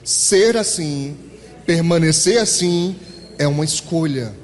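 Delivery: each word drawn out slowly, weight on ser and permanecer; slow emphatic phrase. Shown as a demonstration. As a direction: spell out "ser assim, o permanecer assim" slowly like a verdict. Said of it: "Repete isso pra mim".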